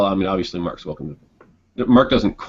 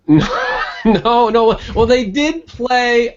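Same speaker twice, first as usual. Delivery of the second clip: laughing; 12 semitones higher, 4 dB louder, slower than usual. Real, not acted. Laughing at the liturgy question.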